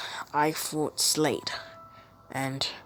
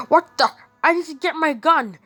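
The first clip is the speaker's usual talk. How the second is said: higher, louder startled cry; villain caught off guard, higher and louder; 9 semitones higher, 4 dB louder than usual. Acted. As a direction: jump in shock and reach for the gun. Penguin shocked by Batman.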